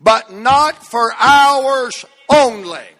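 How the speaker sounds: preacher rising into a shout; building to a shout. Real, not acted. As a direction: build from a hush to a full cry. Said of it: "I'm close to shouting right there now".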